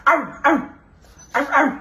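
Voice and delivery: mock barking; dog bark demo. Shown as a demonstration. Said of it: "Papa na lang magbabark". (kunwaring tahol ng aso)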